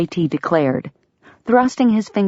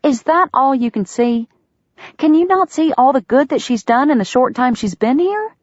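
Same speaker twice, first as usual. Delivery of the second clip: higher, pleading disbelief; 9 semitones higher than usual. A narrator's reading. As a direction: urge him to see. Delia pleading.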